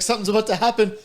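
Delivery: high, mock-panicky warning; overwhelmed Dale imitation. Dale nearing climax on his first time, mock panic. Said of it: "He's like".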